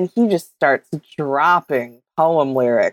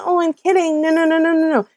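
high-pitched mock protest; high, playful denial; 9 semitones higher, faster than usual. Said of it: "her with the".

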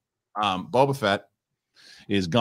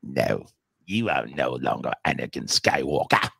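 low sinister Emperor voice; Palpatine voice; 8 semitones lower than usual. Pretend. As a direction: growl it out like an evil emperor. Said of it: "it's gotta be Emperor Palpatine going".

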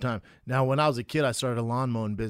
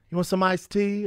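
higher-pitched imitation of a housewife's offer; a hint of a flirty housewife; lightly voiced housewife; 7 semitones higher, 4 dB louder than usual. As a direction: pitch it up, inviting. Voicing housewives offering tea.

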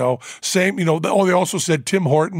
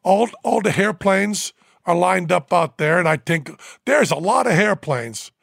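put-on Newfoundland accent; 3 semitones higher than usual. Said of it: "And with that accent".

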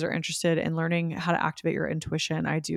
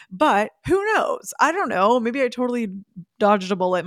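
playful doubt; 4 semitones higher, 4 dB louder than usual. Real, not acted.

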